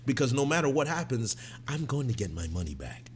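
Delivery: low, calm, menacing mother; eerily calm Lori. Retold or imitated. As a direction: threaten softly and evenly. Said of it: "Lori just being eerily calm".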